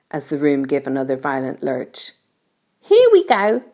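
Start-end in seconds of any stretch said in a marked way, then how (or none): 2.8-3.6 high call of excitement; excited cry. A narrator's reading. Creatures as the room lurches, excited cry.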